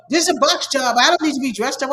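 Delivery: imitating her annoyed protest; retold livid complaint. Twitter woman complaining about the dress code, mock indignant. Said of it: "she was livid".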